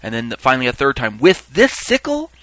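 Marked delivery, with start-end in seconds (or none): 1.2-2.3 very high, slow, loud question; crying out. Acted. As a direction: stretch the cry for the last asking. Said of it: "he cried out a second time".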